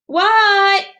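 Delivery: high, loud startled What. Acted. Froggy startled by his teacher, loud. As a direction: jump when the teacher calls.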